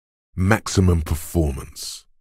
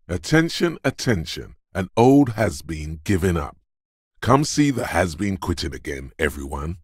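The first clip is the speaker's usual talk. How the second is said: mock town crier. Coach to everyone about the quitting has-been, mock announcing. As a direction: announce it grandly to the crowd.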